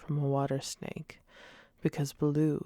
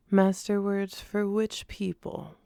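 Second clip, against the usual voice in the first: a higher, eager man-cub voice; lightly voiced young boy showing off; boastful boy Mowgli; 5 semitones higher, 4 dB louder than usual. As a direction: show off like a proud child.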